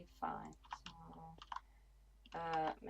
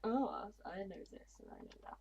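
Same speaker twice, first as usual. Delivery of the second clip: posh voice. Retold or imitated. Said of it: "went to a really kind of posh voice".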